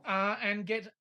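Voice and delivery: mangled French phrases in a hammed-up accent; deliberately bad accent. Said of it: "it is meant to be a shit accent".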